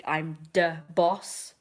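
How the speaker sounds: slow, drawn-out mock Italian-American "I'm da boss"; silly mafia accent. Shown as a demonstration. Vlogger showing how she types Don Lino, mock Italian-American. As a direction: ham up the mob boss, slowly. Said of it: "but I do".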